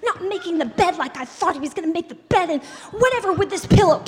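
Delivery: a mock rant that builds to a laughing shout; mock angry rant. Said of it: "and we're like".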